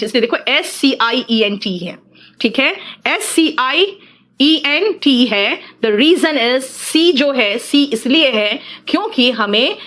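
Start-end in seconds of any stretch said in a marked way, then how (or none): 0.5-5.6 spelled out slowly. Shown as a demonstration. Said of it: "spelling letter by letter".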